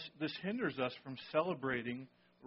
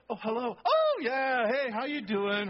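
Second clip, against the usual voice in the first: imitating mom switching to a high, sugary phone greeting; suddenly all sweetness on the phone; sweet phone voice; 7 semitones higher, 6 dB louder than usual. Pastor imitates mom answering the phone, suddenly high and sweet. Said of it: "and the phone ring".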